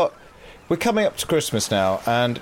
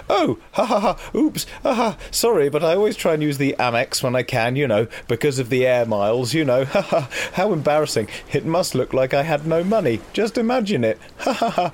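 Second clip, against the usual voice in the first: high, affected posh lady laughing; 4 semitones higher than usual. Retold or imitated. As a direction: put on a plummy posh woman's voice. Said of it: "Posh voice".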